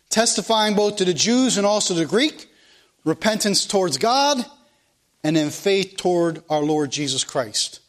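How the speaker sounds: preacher reading the Bible to the congregation; scripture reading. Acted. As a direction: proclaim each verse from the pulpit. Reading Acts verse aloud.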